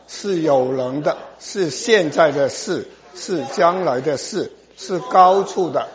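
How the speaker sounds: rhythmic list, each phrase falling; scripture reading aloud. Real, not acted. Preacher reading the last verses with the congregation, rhythmic scripture reading.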